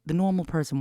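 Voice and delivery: faint nasal whistle on breaths; whistling nose. Real, not acted. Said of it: "Why is my nose whistling?".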